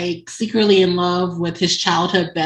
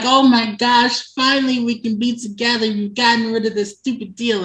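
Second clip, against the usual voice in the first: lightly acted gushing, higher pitched; excited retelling; 3 semitones higher than usual. Tabitha telling Clay they can be together, excited. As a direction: gush as the overjoyed admirer.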